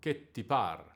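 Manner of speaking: "Che" held long, "ti" short and tied to "par"; correct Italian rhythm. Shown as a demonstration. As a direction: lengthen "Che" and slip "ti" lightly into "par". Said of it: "we can pronounce the line like this".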